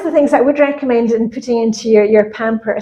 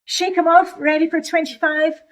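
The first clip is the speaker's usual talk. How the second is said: peppy cheer; 4 semitones higher, 4 dB quieter than usual. Acted. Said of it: "give a little pom-poms again".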